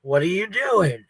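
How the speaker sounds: drawn-out, mildly exasperated retelling; mock exasperation, slow and drawn out; irritated mock question. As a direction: stretch out the question as an imitated grumble.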